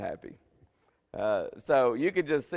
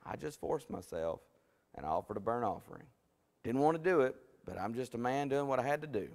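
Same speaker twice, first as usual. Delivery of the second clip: self-satisfied Saul. Acted. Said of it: "patting himself on the back".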